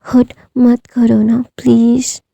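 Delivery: teary pleading. Acted. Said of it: "अपनी teary आंखों से बोलता है".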